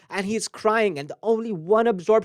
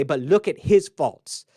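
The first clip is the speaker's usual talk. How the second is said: hypocritical jab; 2 semitones lower, 4 dB louder, slower than usual. Retold or imitated. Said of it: "when we are hypocritical, we say".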